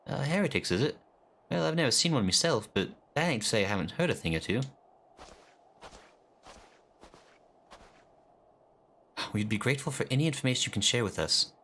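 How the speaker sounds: lightly voiced eager common soldier; a hint of a rough-spoken grunt; voiced game character. Streamer reading a lowly soldier's greeting, lightly voiced.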